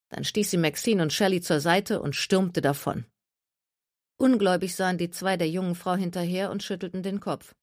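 ordinary delivery

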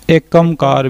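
ਏਕ long e, ਓਂਕਾਰ as amkar; the wrong ek amkar; wrong ek onkar. Shown as a demonstration. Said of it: "ਵੀ ਨਹੀਂ ਉਚਾਰਨਾ".

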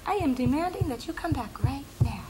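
put-on high, demanding little-girl voice; bossy baby voice. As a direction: play a bossy toddler giving orders. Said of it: "She's very bossy. She'll go".

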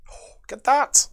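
sudden high burst of delight. Real, not acted. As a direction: gasp it out, thrilled by the card. Delighted at upgraded captain card.

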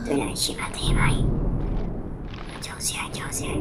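tense whisper while sneaking; scared whisper. Real, not acted. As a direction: whisper so the ghoul won't hear.

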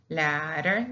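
ladder with one light tap in the middle; single tapped R. Shown as a demonstration. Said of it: "that's the single pronunciation of one only".

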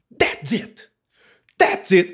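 high, punchy exclamation; excited cry. Shown as a demonstration. Teacher showing what "cried" means, excitedly. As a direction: exclaim it with a jump in pitch. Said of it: "when we say something excitedly".

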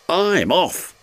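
high cry of alarm; alarmed exclamation. A narrator's reading. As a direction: yelp it as you derail. Duncan exclaims as he derails.

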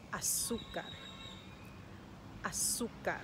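Azúcar with weight on ZÚ; teacher's model "Azúcar", U stressed. Shown as a demonstration. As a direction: hit the middle syllable of Azúcar. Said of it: "has the emphasis, the accent, on the U".

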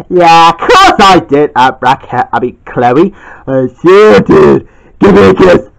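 the husband drawls his yes. Acted. Arthur figure answers slowly.

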